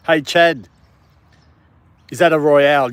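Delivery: cheerful greeting. Real, not acted. Greeting a viewer.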